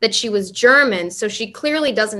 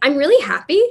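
American upspeak, rising pitch at end on happy; 6 semitones higher, 5 dB louder than usual. Explaining that americans sound like they ask a question at the end; american uptalk. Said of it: "it sounds like they have a question at the end of everything".

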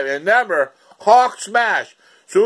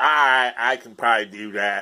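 put-on man's voice, slower; 9 semitones lower, 4 dB quieter than usual. Retelling a man's reply to a suggestion, Forrest Gump-like voice. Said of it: "He talks like this".

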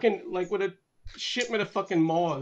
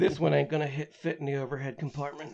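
put-on muttering to oneself, lower; 3 semitones lower than usual. Imagining what Tyler says while hiding bodies in luggage: imitating Tyler muttering to himself. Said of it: "he mutters to himself".

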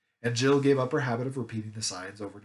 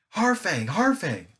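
joyful, glad, excited calling out, raised voice; 7 semitones higher, 6 dB louder than usual. Narrator reads Scrub and Jill after weeks in the wild: glad, excited cry. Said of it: "cried Scrub and Jill in glad, excited voices".

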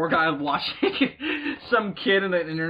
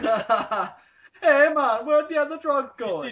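put-on Jamaican accent, higher; 8 semitones higher than usual. Asked by another speaker to do a Batman character, putting on a Jamaican Batman voice. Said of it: "do Jamaican Batman".

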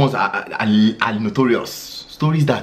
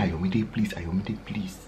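mock begging, quieter; 2 semitones lower, 9 dB quieter than usual. Imitating a borrower asking Ayomide for money: imitating pleading borrower. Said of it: "When you were saying".

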